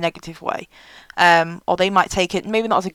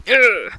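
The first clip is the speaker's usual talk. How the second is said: mock grunt of "ugh"; 3 semitones higher than usual. Mimics sullen newcomer at table.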